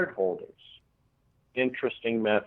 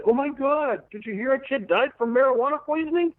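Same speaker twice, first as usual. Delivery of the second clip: gossiping lay person; 12 semitones higher than usual. Retold or imitated. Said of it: "lay people say".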